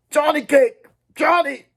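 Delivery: high, loud, cracking call of a friend's name; hoarse cry. Acted. Dally calling to dying Johnny, hoarse cry. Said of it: "he said in a hoarse cry".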